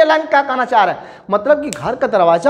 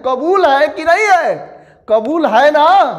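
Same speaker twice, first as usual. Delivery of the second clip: higher, insistent tag question; pushy confirmation; 5 semitones higher than usual. Shown as a demonstration. Teacher imitates the uncle forcing agreement. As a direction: press them to agree. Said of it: "जबरदस्ती कबूलवा रहे हैं".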